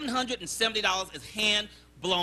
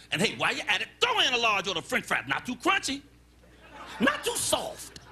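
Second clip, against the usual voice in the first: customer with attitude. Acted. Fussy diner adds fries to his order, pushy attitude. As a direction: pile on the order, then draw out the fussy caveat. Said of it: "he had an attitude problem".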